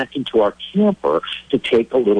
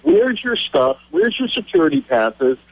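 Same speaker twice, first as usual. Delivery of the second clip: high, insistent Secret Service grilling; acted-out agent demanding answers; interrogating agent; 9 semitones higher than usual. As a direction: fire off demands, pitched well up.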